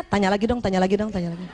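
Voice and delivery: low pleading under the breath, acted; inner voice. Wife silently begging husband to ask, low imitated inner voice. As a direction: lightly mimic a secret repeated plea. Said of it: "Tapi dalam hatinya".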